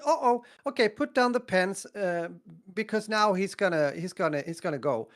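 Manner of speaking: the teacher suddenly hurrying everyone out; excited teacher. Retold or imitated. Teacher to the class, excited high call to go.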